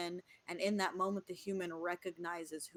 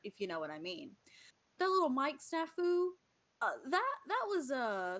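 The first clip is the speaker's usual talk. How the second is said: higher, quick, sheepish corporate spiel; corporate God; 5 semitones higher than usual. Acted. God apologising to Jake for the mic snafu, higher and sheepish. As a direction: explain it like an apologetic product manager. God explaining prayer testing.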